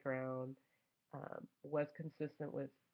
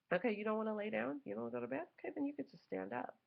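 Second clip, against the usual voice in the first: stern mother; 7 semitones higher, faster than usual. Retold or imitated. Mother disciplining son.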